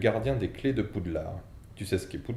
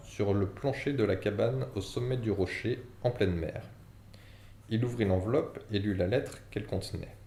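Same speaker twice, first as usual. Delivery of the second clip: formal letter reading; 3 semitones higher than usual. Acted. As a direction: read it like a solemn announcement.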